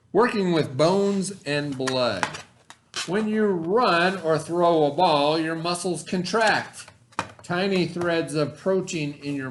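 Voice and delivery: put-on clear, deliberate read-aloud voice for kids; reading to children. Teacher reads the science book to her students, storytime voice.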